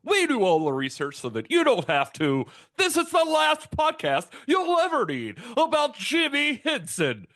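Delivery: high lisping puppet host; bouncy puppet show intro, high; Muppet voice. Acted. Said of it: "Muppet voice has a lisp".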